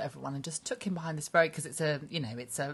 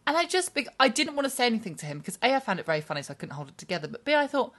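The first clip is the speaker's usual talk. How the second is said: ordinary talk, nothing marked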